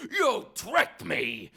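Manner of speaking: high, very slow goblin wail; outraged goblin. Acted. Goblin freed from the jar accusing Herschel, high outraged wail. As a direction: drag it out high as a cheated goblin. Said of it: "and his hand slid out of the jar".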